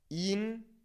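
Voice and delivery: internet as een-tehr-net, syllable by syllable; Spanish internet with gaps: een, tehr, net; Spanish pronunciation. Shown as a demonstration. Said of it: "now with this pronunciation focusing on the vowel sounds".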